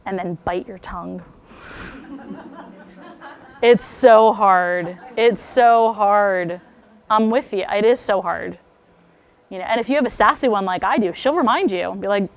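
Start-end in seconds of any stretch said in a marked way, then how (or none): 3.6-8.6 loud, drawn-out, slow emphasis; emphatic commiseration. Real, not acted. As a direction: commiserate loudly, stretching each word. Emphatic commiseration with fellow parents.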